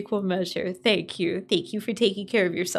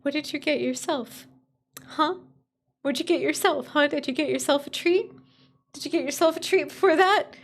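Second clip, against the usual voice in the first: higher cooing voice for a pet; pet talk; 4 semitones higher than usual. Real, not acted. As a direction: coo at the little animal.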